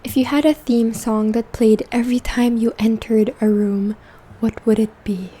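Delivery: gentle half-whispered soft speech; soft spoken voice. Real, not acted. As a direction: speak softly, like a calm spa host. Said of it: "this video is going to be in a soft spoken voice".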